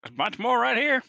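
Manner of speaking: loud high yell, slow. Acted. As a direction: shout it out across the room. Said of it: "he's gonna yell out".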